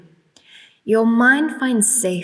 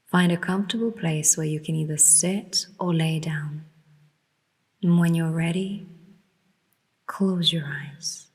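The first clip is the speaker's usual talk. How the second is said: guided meditation; 3 dB quieter than usual. Real, not acted. Leads a guided relaxation.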